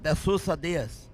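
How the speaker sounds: slow Spanish-accented name; measured, showy Spanish pronunciation. Shown as a demonstration. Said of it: "say that with a Spanish accent".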